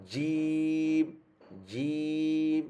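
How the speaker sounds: জিম with tongue middle firmly on the palate; জিম, full contact at the makhraj; correct makhraj. Shown as a demonstration. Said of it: "এটা হচ্ছে মাখরাজ লেগে". (জিম সঠিক মাখরাজ থেকে)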